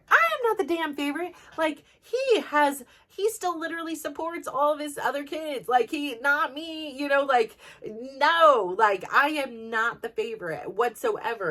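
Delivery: indignant outburst at being called the favorite; exasperated protest. Real, not acted. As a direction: push back hard, fed up. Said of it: "I could tell by my tone".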